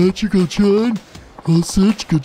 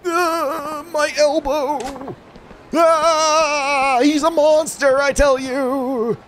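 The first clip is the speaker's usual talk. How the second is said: pained cry; 6 semitones higher, slower than usual. Acted. Hurt man cries about elbow.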